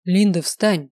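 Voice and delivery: a firm order in another voice; command. Acted. Kels commands Linda to stand up. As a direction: order her to her feet. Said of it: "прозвучала команда".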